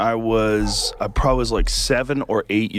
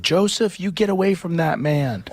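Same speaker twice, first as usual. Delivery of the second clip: retold scream; 8 semitones higher than usual. Librarian warning a boy off a man, mock screaming. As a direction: imitate a screaming librarian, pitched way up. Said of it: "starts screaming".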